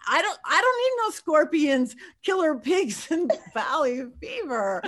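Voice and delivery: stranded psychic begging the crew, mock panic. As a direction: beg to be let into the haunted house. Retold panic, pleading.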